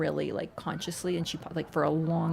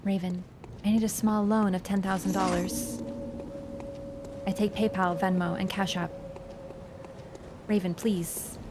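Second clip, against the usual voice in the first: quiet mock plea; 7 dB quieter than usual. Joke Air impression begging money.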